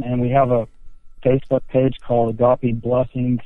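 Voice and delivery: sounds like talking into a cup; muffled, cupped phone line. Real, not acted. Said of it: "sounded like you were talking into a cup".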